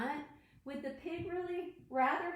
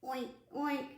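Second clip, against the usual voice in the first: short, separate oinks; playful pig oinking; pig noises. Shown as a demonstration. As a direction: oink like a pig for children. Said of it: "Can you be a pig?".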